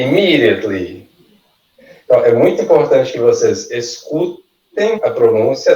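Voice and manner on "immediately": Immediately as "i-MEE-dee-utly"; pronunciation model. Shown as a demonstration. Teacher having the class repeat, Immediately carefully modelled. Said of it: "vocês vão repetindo".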